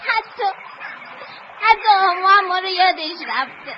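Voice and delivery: upset, with breaks between the words; tearful, halting complaint. Acted. Child complaining everyone forgot them, tearfully halting. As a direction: stumble through a hurt child's complaint. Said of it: "لازم نیست گریه کنی".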